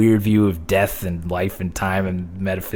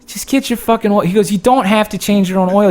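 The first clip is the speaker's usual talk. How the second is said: dad voiced much higher, exasperated; 13 semitones higher, 4 dB louder than usual. Dad telling son on the phone, mock exasperation. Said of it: "He's like".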